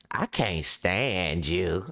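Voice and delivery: slow, low, deadpan "I can't stand you."; mock hostile line. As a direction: say it flat and slow like a girl pretending to hate you. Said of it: "And they be like".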